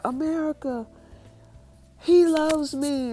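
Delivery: high, loud joyful yell, slowing on "he loves me"; screaming out joyfully. Retold or imitated. Justine shouting to America that Caleb loves her, joyful yell. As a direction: shout it to the whole country. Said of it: "they start screaming out".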